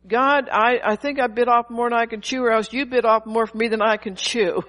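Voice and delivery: hammed-up grumble at God, laughing at the end; preacher mimicking a weary believer's prayer; mock complaining prayer.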